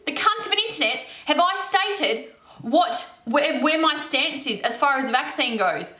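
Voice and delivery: angry rant, pitch often lifted; really heated. Real, not acted. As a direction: tell off your accusers, real heat in it. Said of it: "we got real heated".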